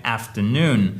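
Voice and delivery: "afternoon" with stresses on AF and NOON, falling; deux accents toniques. Shown as a demonstration. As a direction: model both stresses in "afternoon". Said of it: "vous en avez deux". (« afternoon » avec deux accents, finale descendante)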